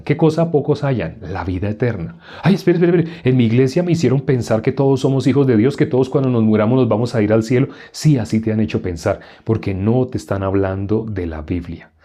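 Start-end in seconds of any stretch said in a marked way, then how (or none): 2.4-7.7 lightly voiced startled listener, pitched up; a hint of someone protesting; mock objector. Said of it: "preacher voices an objector".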